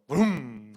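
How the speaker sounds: drawn-out motorbike engine noise; imitated engine vroom. Preacher telling of pastor's new motorbike, imitated engine roar. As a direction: rev it like a small motorbike.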